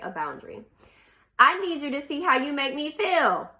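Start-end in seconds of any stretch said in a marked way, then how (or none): 1.4-3.5 higher-pitched, mildly aggressive demand. Acted. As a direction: act out a mildly aggressive complaint. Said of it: "when someone is aggressive, they might say".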